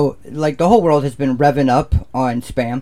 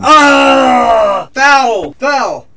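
higher, louder playful shout of foul; mock referee shout; 8 semitones higher, 5 dB louder, much slower than usual. Joking about blood at a cookout, mock referee shout. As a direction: call the foul like a ref.

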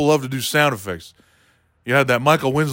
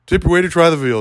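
stock comic line; 4 semitones higher than usual. Pretend. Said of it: "one of those lines".

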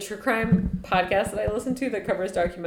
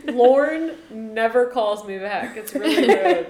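laughing mock offense; 3 semitones higher, 5 dB louder, slower than usual. Playing snubbed comedian.

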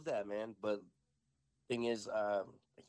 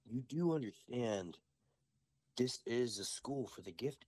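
lightly acted wizard schoolmaster, measured; in-character wizard. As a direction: address a new pupil with mild gravity. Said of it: "we're in total character".

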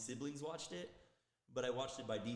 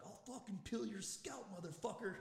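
mock threat; 8 semitones higher than usual. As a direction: replay the gym threat in a raised, slowed voice. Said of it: "I was like".

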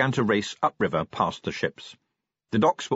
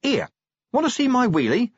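high, excited offer; show-off driver keen to impress; eager coachman; 14 semitones higher, 4 dB louder than usual. A narrator's reading. Coachman offering Vimes another stunt, eagerly excited.

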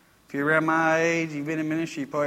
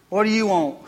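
imitating an unwelcoming lady; mock brusque question at the door; curt demand; 4 semitones higher than usual. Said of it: "Just like that, seriously".

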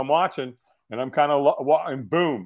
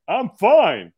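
loud, emphatic fake 'fine'; insincere reassurance; 8 dB louder than usual. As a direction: punch it out as an obvious cover-up. Acting out a fake okay answer.

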